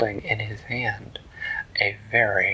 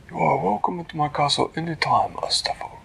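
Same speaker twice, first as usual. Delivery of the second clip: higher, formal and polite small hero; Flippertigibbet voice; 7 semitones higher than usual. Acted. Flippertigibbet greeting the turtle, high and polite.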